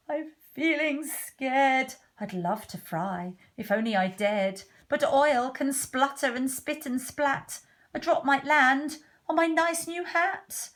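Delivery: lightly voiced worried cook, mostly high; timid cook, scared. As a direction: play a wimpy cook fretting.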